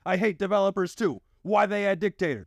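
put-on high whiny angry kid voice; angry forum kid. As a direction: whine it like a raging kid. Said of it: "The forums reacted about as calmly".

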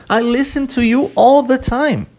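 high-pitched, acted protest; protesting retort. (protesto encenado, em tom agudo)

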